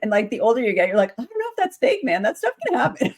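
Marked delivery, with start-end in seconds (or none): 1.2-3.1 mock spooked. Older self doubting horror is fake.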